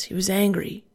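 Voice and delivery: ordinary talk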